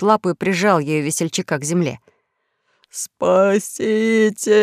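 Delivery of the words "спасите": very slow, rasping plea; drawn-out hoarse rasp; hoarse cry for help. A narrator's reading. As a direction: croak it out like a pinned-down fat pirate. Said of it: "прохрипел весельчак У".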